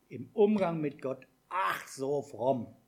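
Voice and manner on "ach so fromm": mock pious. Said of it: "in unseren Gebeten".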